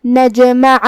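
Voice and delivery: نجمع with the jeem bounced; qalqalah on jeem. Shown as a demonstration. Teacher showing qalqalah on the word. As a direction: make the jeem echo in نجمع. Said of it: "حرف کو ہلاتے ہوئے".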